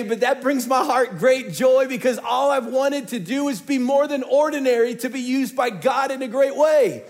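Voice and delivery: loud, high, driving sermon; full-force sermon climax; preaching at full force. Acted. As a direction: preach it to the back row.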